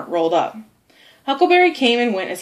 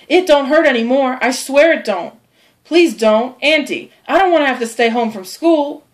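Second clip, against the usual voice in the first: higher, louder frantic begging; pleading; 5 semitones higher, 4 dB louder than usual. Acted. Tom begging his aunt not to pull the tooth, pleading. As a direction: beg her to leave it alone.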